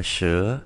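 "sữa" pronounced like Chinese shí; "sữa" read the Mandarin way; Mandarin ten. Shown as a demonstration. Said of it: "Và mười chúng ta đọc là".

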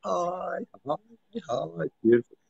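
mock high-pitched cooing hellos; imitating high voice. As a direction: tease her by copying her high greeting. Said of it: "You go like".

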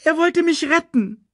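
high cub's wail; lamenting. A narrator's reading. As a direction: plead it through grief. Cub lamenting. (klagender Welpe, hoch)

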